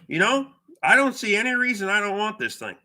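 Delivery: imitating the seller's country accent, lightly. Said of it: "Why are you talking with an accent?".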